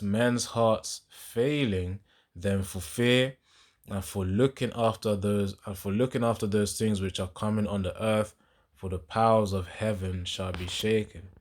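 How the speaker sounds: measured, emphatic verse reading; scripture reading. Acted. Preacher reads Luke to listeners, deliberate scripture reading. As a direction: read the verse out with weight on each phrase.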